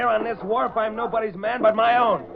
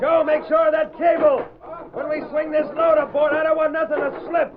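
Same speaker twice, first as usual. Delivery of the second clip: loud, raised call to a worker; shouting across the dock; 6 semitones higher, 4 dB louder than usual. Acted. Foreman shouting to Joe about the cable, loud. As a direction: make yourself heard over the cargo noise.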